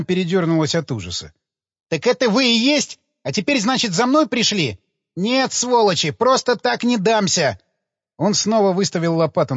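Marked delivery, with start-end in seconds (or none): 1.9-7.6 panicky, higher hysterical voice; cornered man, terrified and defiant. A narrator's reading. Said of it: "у мужика истерика".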